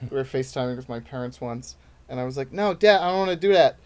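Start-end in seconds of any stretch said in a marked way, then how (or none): 2.5-3.8 put-on New York accent. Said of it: "if I get really tired".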